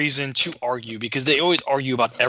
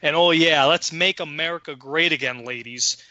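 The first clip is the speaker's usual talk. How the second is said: ranting tirade; 2 semitones higher than usual. Retold or imitated. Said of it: "I just went fucking off".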